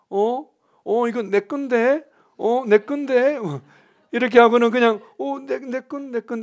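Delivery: put-on timid, high, slow, whimpering, whining child voice.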